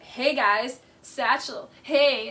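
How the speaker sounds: forcing a friendly hello, hammed up; mock awkward greeting. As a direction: Schwartz greeting Katie's date, mocked. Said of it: "he's like".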